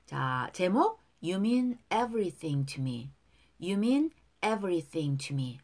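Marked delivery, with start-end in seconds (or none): 1.2-3.1 slow, careful model line; slow model reading. Shown as a demonstration. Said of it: "발음 따라 보겠어요". 3.6-5.6 slow, careful model line; slow model reading. Shown as a demonstration. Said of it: "두 번씩 따라 할게요".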